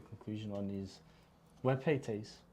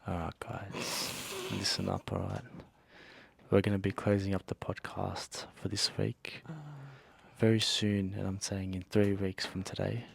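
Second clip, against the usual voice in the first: mock ASMR voice; 3 dB louder than usual. Closing the podcast with mouth to the mic, mock ASMR. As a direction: play at ASMR, right up on the mic. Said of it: "Stop talking like that".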